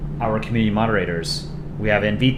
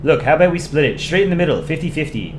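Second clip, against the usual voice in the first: put-on quick Canadian accent, starting higher; 4 semitones higher than usual. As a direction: propose it briskly in a Canadian accent. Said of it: "I should do my Canadian accent".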